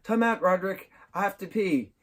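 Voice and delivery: high-pitched imitation of a kid begging for a break; mock desperate plea; acted pleading kid. Acts out Greg pleading with Roderick.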